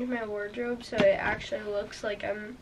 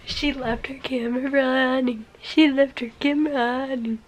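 teasing; 6 dB louder than usual. Real, not acted. Teasing sister caught talking to camera.

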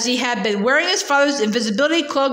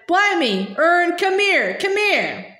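Stan shouting; 5 semitones higher, slower than usual. Acted. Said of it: "Stan shouted".

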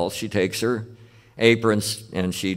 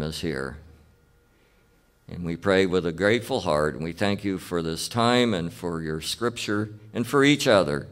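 reverent, measured prayer voice, trailing down at the ends; opening prayer. Acted. Pastor opening the class with a prayer, reverent and measured. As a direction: pray it humbly to God.

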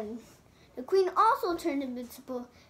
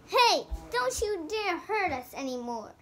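defiant; 5 semitones higher than usual. Acted. Hero defies the queen.

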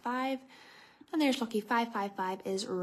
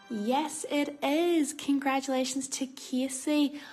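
excited announcement; 4 semitones higher than usual. Real, not acted. Winner announced over music.

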